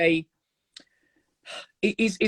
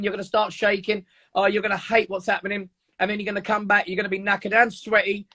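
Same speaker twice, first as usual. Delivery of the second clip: lightly voiced fearful inner voice, slowing at the end; a hint of the coaxing fear voice talking you out of it; 3 semitones higher than usual. Inner fear voice discouraging a morning workout, lightly voiced and coaxing. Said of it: "your voice inside your head goes".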